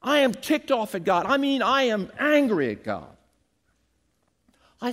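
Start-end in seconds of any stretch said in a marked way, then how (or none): 0.0-3.2 mock angry man, a touch higher; angry counselee. Pastor imitates the angry man in counseling, mild mock anger. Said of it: "He said".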